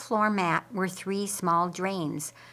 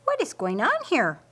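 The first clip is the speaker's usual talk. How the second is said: raised, louder demanding question; Mary demands an answer, higher and louder; indignant surprise; 6 semitones higher, 4 dB louder than usual. A narrator's reading. Mary catching the couple kissing, indignant demand. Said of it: "hands bolted to her hips".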